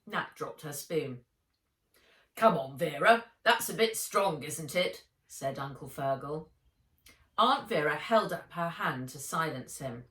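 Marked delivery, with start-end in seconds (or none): 2.4-5.1 louder, placating uncle's objection; a man's uneasy remonstrance; mild protest. A narrator's reading. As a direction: gently push back on his wife.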